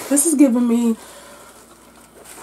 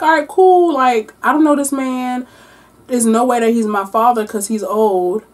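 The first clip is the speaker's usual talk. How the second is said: mock dismissive teen. Avery reacting in retold story.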